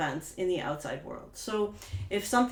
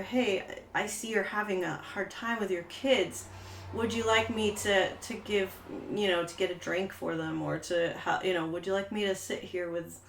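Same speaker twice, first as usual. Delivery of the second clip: gentle offer of help; 3 dB quieter than usual. Pretend. Offering help to stressed mother.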